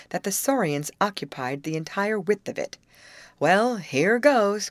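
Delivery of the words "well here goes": slow, louder, higher resolve; determined cry. A narrator's reading. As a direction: cry it out before taking a plunge. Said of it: "cried Betty".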